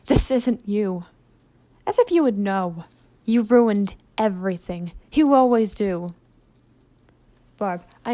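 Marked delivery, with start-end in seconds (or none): 1.9-6.1 bitter. Acted. Barb turns on Blitz bitterly.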